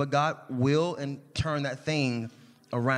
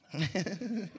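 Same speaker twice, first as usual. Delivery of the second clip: laughing at herself; 3 semitones higher, 6 dB quieter than usual. Real, not acted. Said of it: "Was my cry not good?".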